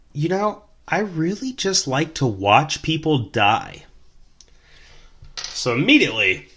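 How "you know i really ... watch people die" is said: high, slow and eerily dreamy; creepy drunk woman. Retold or imitated. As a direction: voice her calmly saying something disturbing. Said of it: "And she goes".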